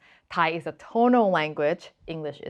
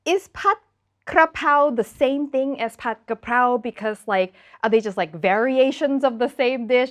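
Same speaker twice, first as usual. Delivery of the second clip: confused asker; 3 semitones higher than usual. Retold or imitated. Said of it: "I've even had people ask me".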